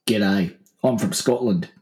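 lightly voiced Australian actor playing a Scotsman; Brian Brown. Shown as a demonstration. Showing co-host an actor playing a Scotsman, deadpan impression. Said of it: "do an impression of Brian Brown playing a Scotsman".

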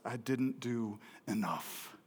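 slow, soft and heavy; quiet regret. Retold or imitated. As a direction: let the guilt sink, slowly and softly. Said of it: "Oskar says".

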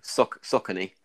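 Saucony tried as SOCK-uh-nee, with a false start; attempted correct pronunciation. Shown as a demonstration. Speaker practising the brand name, attempting Saucony as SOCK-uh-nee. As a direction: break off after Soc-, then say Saucony with stress up front. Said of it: "I struggle to pronounce".

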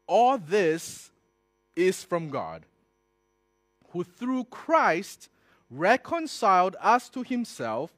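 loud, measured preacher's reading with long pauses; emphatic scripture reading. Real, not acted. Preacher reading Second Corinthians to his listeners, emphatic proclamation. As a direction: proclaim it phrase by phrase.

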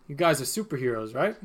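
lightly voiced New York bartender, confiding; New Yorker bartender. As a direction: lean in as a New York barman. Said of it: "this guy's turned into a New Yorker".

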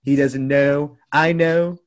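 a hint of a boastful Trump; lightly voiced Trump. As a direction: brag like Trump at a debate. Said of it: "Should I do my Trump voice".

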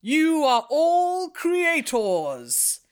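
slow, grand storyteller voice; booming narrative voice. Acted. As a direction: draw each word out like an epic narrator. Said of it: "Shall I do a booming narrative voice?".

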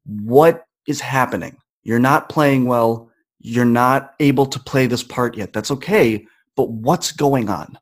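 slow, gentle talking-down of oneself; calm self-talk. Retold or imitated. Student calming himself alone in the bathroom, slow and gentle. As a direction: talk yourself down slowly and kindly.

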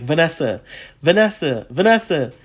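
imitated call to get attention. Calling to a celebrity across the ride, calling out. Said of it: "I'm calling her".

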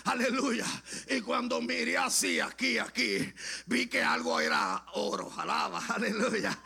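full-voiced revival preacher; fervent testimony preaching. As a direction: tell it with preacher's fire.

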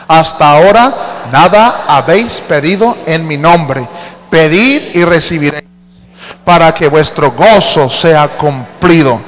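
slow, measured Bible reading; scripture reading. Acted. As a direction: read each clause out like holy text. Congregation reads scripture together.

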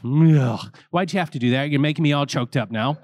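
a priest pretending he's about to cry; choked up. The priest lifting the boy, voice getting choked up. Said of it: "and says".

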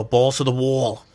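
mom's punchy New York catchphrase; imitating mom. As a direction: lightly mimic a tough New York mom. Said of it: "Or she would go".

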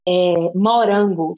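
"morango" slow, vowels opened wide; sotaque aberto. Shown as a demonstration. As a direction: stretch "morango" with an open Minas O. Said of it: "as pessoas falam bem aberto". ("morango" bem aberto, devagar)

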